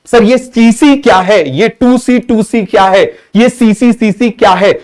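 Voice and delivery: lightly put-on voice of a confused pupil asking sir; puzzled student. Acting out a puzzled student's question. (उलझे हुए छात्र की नकल, ऊँची आवाज़ में सवाल)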